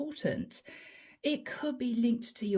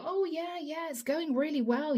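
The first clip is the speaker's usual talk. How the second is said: putting on a front; 5 semitones higher than usual. Acted. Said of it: "you wore a false mask".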